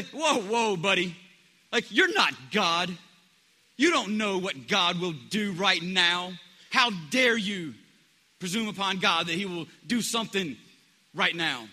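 slow, loud condescending rebuke; a skeptical churchgoer scolding a bold believer, loud and slow; mock scolding. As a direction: wag a finger at an overeager believer. Mocking cautious Christians.

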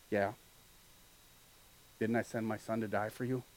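soft, dry reply; quietly voiced God; gentle God. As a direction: answer tenderly, with a wry edge. God's gentle answer voiced.

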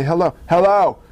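low, composed phone greeting; calm voice. Acted. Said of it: "call them in a calm voice".

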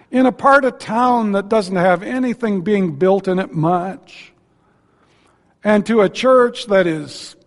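a lightly voiced seminary instructor lecturing young pastors; mock seminary lecturer. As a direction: ham up a seminary professor advising students. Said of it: "So here's what happens".

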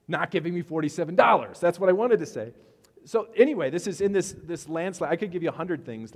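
loud, high exasperated ranting; fired-up rant. Real, not acted. Pastor venting to the congregation about the bad week, loud and worked up. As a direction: vent the frustration at full volume.

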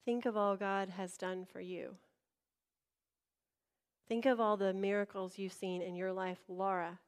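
lightly voiced soft inner prompting; a hint of quiet urging; small voice of faith. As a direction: coax quietly, as a tiny inner voice. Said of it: "this little faith talking to me".

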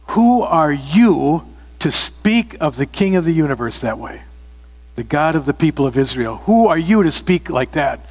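a voiced David standing up to the giant, firm and indignant; defiant challenge. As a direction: throw the question back at him, offended. David challenges Goliath's blasphemy.

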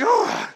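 high exasperated "oh"; acted groan of angst; angsty groan. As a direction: let out a high, pained groan. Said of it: "the angst within my own heart".

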